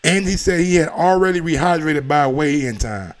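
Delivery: ordinary talk, nothing marked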